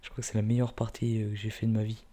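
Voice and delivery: jittery, laughing, rushing the words; shaky and hyped, talk fast; trembling with excitement. Real, not acted. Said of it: "Je tremble un peu".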